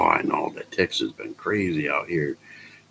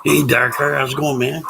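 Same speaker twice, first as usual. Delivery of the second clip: loud greeting; 7 semitones higher, 7 dB louder than usual. Real, not acted. Greeting a character.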